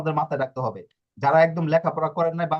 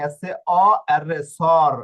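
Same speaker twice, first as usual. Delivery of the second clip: slow spelling out; 6 dB louder, slower than usual. Shown as a demonstration. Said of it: "এই যে এখানে এর রে উচ্চারণ".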